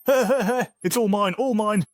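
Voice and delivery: greedy snicker, high voice; sneaky cartoon thief. Gloating over new wealth.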